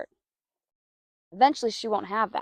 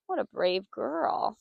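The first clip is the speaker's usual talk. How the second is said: soft slow praise; 4 dB quieter, much slower than usual. Real, not acted. Praising horse softly.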